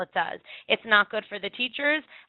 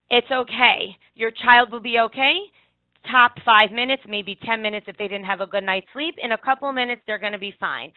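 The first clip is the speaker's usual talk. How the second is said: louder, firm reassurance to worried parents; reassuring parents; 4 dB louder than usual. Shown as a demonstration. Teacher reassuring worried parents at drop-off, firm and calm. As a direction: calmly promise them it'll pass.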